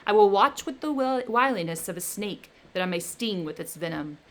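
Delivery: loud, menacing creature; the creature threatening his maker, loud; vengeful threat. Acted. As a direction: vow revenge with rising menace. Creature threatens Victor with revenge.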